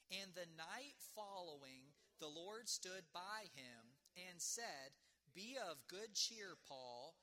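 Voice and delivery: slow, drawn-out communal reading; reading scripture together. Acted. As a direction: read each phrase slowly with the congregation. Congregation reads verse together.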